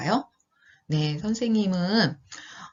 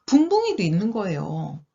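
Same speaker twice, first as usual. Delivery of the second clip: put-on lilting storybook narration for young listeners; children's storytelling. A narrator's reading. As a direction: read it like a picture book.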